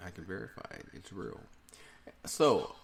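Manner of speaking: ordinary delivery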